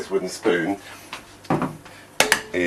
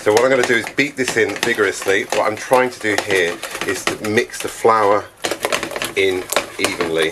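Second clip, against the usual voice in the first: shouting over machinery; 3 semitones higher than usual. Real, not acted. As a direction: project over the noise. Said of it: "shout over the noise".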